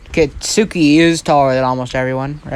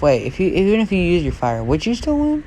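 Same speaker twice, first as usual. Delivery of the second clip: puzzled; 3 semitones higher than usual. Acted. Puzzled thought, asked as question.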